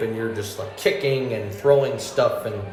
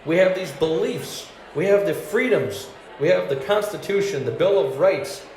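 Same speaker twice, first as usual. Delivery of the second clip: higher-pitched defensive protest; indignant patriot; 4 semitones higher than usual. Retold or imitated. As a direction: earnestly list your rights with rising indignation. Acted patriotic protest in misunderstanding.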